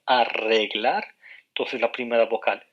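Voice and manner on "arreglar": arreglar drawn out syllable by syllable; slow example word. Shown as a demonstration. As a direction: spell out arreglar slowly for students. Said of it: "palabras, por ejemplo".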